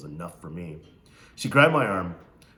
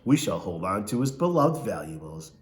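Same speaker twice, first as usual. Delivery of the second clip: Missus Amos; 6 dB louder than usual. Acted. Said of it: "and she laughed".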